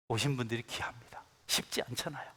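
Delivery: soft, unvoiced whisper; hushed confiding whisper. Real, not acted. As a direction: lean in and whisper it to the pews. Pastor turns intimate with the congregation.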